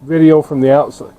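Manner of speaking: talking with numb frozen lips. Real, not acted. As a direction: lips too cold to move. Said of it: "My lips are frozen".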